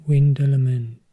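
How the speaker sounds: normal talking voice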